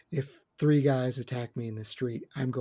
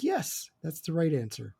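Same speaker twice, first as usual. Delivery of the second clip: higher-pitched, retold approval; pleased reaction; 4 semitones higher than usual. Podcaster retells first reaction to a movie line, pleased. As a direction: recall being pleased with the choice. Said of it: "at first I was pleased".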